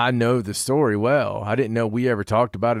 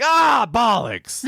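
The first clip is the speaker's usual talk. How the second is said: high, slow shouted mock British "Ah, bollocks"; a hammed-up Brit cursing, drawn out and loud; an air service guy hearing the podcast, in a mock British shout; British exclamation; 12 semitones higher, 3 dB louder, much slower than usual. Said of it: "He's like".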